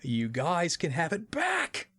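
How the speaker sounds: high, laughing mock Lara, slowing at the end; a giddy high-pitched Lara handing the city back.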